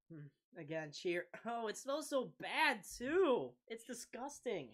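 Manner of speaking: ordinary delivery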